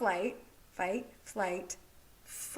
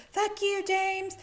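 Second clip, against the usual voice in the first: higher, louder angry yell at the husband; angry outburst; 9 semitones higher, 4 dB louder, slower than usual. Retold or imitated. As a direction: spit it out in a retold fury. Wife lashes out at husband.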